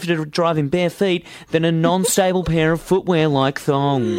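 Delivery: a touch of a formal instructor; lightly voiced stern instructor; driving instructor voice. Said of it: "It's my driving instructor voice".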